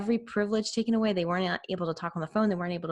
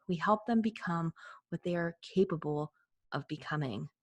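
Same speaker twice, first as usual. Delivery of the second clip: quote reading. Acted. Reads a quote aloud.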